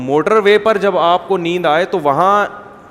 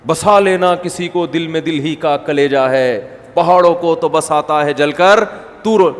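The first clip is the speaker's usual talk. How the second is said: loud poetry recital; slower than usual. Shown as a demonstration. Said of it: "ایسے میں چیخ چیخ کے شاعری پڑھ رہا ہوں".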